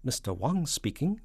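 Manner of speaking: high, slow Chinese phone voice; Mister Wang. Acted. Stationmaster answering the president, high and slow. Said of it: "said a voice at the other end".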